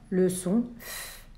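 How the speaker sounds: F said slowly and softly, the f held; drawn-out F sound. Shown as a demonstration. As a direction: stretch the sound F for the children. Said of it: "dans quelle syllabe il entend".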